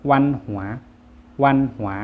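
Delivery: วันหัว as Vietnamese, high then falling; Vietnamese pronunciation. Shown as a demonstration. Teacher models the word for culture, Vietnamese pronunciation of วันหัว. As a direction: say วันหัว in Vietnamese, dropping on the second syllable. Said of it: "ภาษาเวียดจะอ่านว่า".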